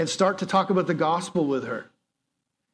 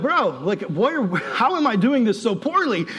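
exasperated; 5 semitones higher than usual. Retold or imitated. Retold exasperation.

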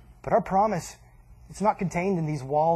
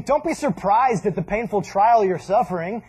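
voicing Peter; 3 semitones higher, 6 dB louder than usual. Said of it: "he's saying".

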